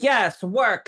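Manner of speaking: put-on high, drawn-out "yes, girl" hype; sassy hype cheer. Therapist cheering him on as he walks down the hall, sassy hype.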